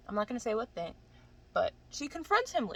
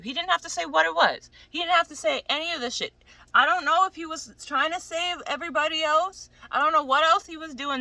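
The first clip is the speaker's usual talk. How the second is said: higher, louder, exasperated insistence; indignant rant; 7 semitones higher, 6 dB louder than usual. Real, not acted. Rejecting his excuses for leaving her, high and indignant. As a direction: argue it hard, pitch riding high.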